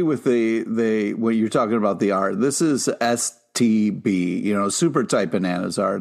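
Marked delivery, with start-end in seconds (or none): 2.4-4.4 slow, separated letters in S T B, with the final B sounded distinctly; stress on B. Real, not acted. Co-host coining an acronym for the art, stress on B. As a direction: spell out S T B slowly, landing clearly on B. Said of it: "That's why I had to pronounce that B".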